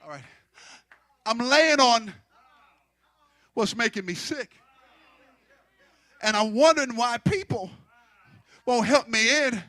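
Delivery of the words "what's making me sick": ordinary delivery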